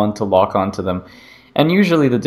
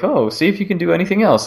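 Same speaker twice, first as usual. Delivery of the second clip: quick, higher, keen urging; eager researcher; 9 semitones higher, faster than usual. Retold or imitated. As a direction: push her on quickly, excited. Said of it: "And then they're like".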